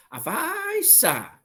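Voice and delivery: very high and slow, drawn out in awe; admiring wonder. Shown as a demonstration. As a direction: stretch it out, full of envy and amazement. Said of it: "有一点很羡慕".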